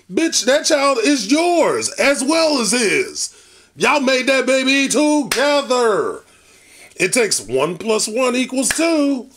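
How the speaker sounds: high, slow, heated scolding at the screen; exasperated high-pitched telling-off; angry scolding. Real, not acted. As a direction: lecture her like she can hear you. Reactor scolds mother on screen.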